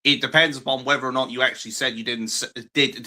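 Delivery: slurring through loose dentures; words slipping past loose false teeth. Real, not acted. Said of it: "my dentures are falling out again".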